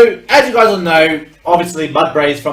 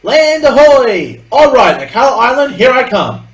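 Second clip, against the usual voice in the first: loud, high, drawn-out holler; big mock-sailor shout; playful lookout call; 9 semitones higher, 8 dB louder, slower than usual.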